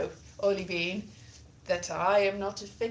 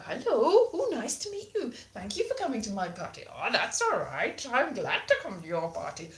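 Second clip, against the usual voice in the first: party guest voices. Pretend. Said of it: "dress up as all these different people".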